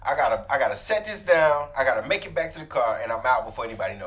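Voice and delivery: rushed, urgent mock secret-agent patter; hammed-up agent racing through the plan; Mission Impossible agent. Teasing friend acting out his sneaky getaway, hurried mock spy. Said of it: "trying to be like Mission Impossible".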